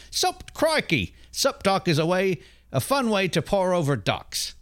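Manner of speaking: hammed-up Australian wildlife host voice; Crocodile Hunter accent. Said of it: "read it in the accent of the crocodile hunter".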